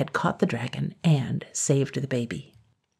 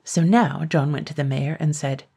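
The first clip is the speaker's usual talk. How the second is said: ordinary delivery, nothing marked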